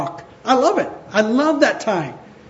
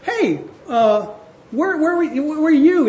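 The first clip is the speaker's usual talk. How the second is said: mock challenge; 7 semitones higher than usual. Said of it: "he says".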